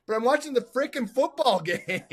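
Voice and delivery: high, hammed-up gripe; playful exasperation; exasperated complaint. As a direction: whine it up high with a laugh. Hammed-up complaint after sincere praise.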